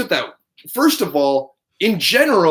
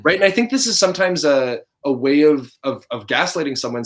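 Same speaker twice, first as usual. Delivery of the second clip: ordinary talk, nothing marked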